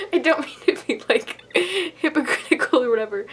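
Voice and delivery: words bubbling through giggles; laughing while talking. Real, not acted. Vlogger reviewing a gory book, giggling through her words. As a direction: talk through a real giggle fit. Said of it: "And I don't know why I'm laughing".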